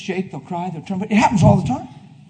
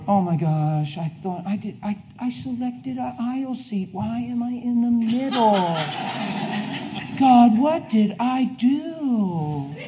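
whiny passenger; 3 semitones higher, 7 dB quieter, slower than usual. Retold or imitated.

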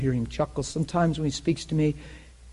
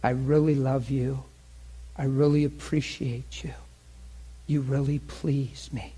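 God's loving voice; 5 dB quieter than usual. Retold or imitated. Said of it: "he was saying stuff like".

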